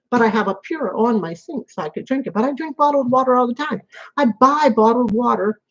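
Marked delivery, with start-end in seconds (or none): 2.3-5.6 talking with food in mouth; mouth full. Real, not acted. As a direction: speak around a mouthful. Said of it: "Sorry if I have food in my mouth".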